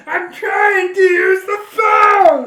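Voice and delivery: high, loud, drawn-out yell; Pee-wee Herman. Acted. Friend quoting his line, high exasperated yell. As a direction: complain at full volume, stretching it out. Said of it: "what's a line that he says?".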